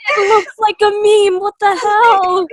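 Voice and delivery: loud laughter breaking through the words; can barely get the words out for laughing; laughing hard. Real, not acted. Friend cracking up at an ugly game sprite, laughing loudly.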